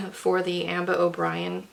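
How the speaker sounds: coughing through the words; words broken by a choking cough. Real, not acted. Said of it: "I'm choking".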